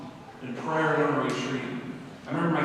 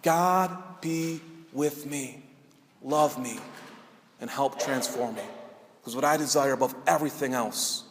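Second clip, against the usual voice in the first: earnest prayer; 2 semitones lower than usual. Shown as a demonstration. Preacher calling out to God to transform him, prayerful. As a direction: pray with pauses, settling down to a hushed end.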